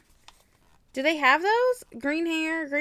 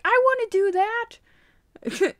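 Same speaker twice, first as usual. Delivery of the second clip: high, drawn-out playful self-quote; slow, squeaky mock eagerness; imitated eagerness; 9 semitones higher, 4 dB louder, much slower than usual. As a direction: mimic your own excited wish. Quotes own earlier eager reaction.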